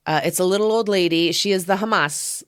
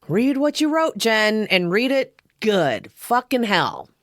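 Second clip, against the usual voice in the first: self-scolding; 5 semitones higher than usual. Real, not acted. Scolds herself for misreading.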